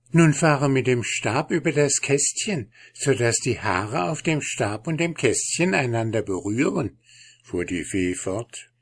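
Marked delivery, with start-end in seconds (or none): 0.1-7.0 high, gentle fairy queen. Acted. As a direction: speak as a kind fairy queen.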